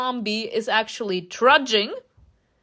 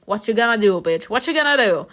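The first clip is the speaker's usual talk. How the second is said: venomous hiss; 4 dB louder than usual. Acted. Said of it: "hissed venomously".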